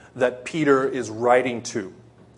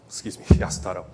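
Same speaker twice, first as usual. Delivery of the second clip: laughing self-correction; 5 semitones lower, much faster than usual. Real, not acted. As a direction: laugh at your own slip, then say Yasutaro.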